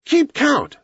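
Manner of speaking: high, taunting call; scornful shout. A narrator's reading. Mowgli taunts the scattered villagers, shouting scornfully. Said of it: "shouted Mowgli scornfully".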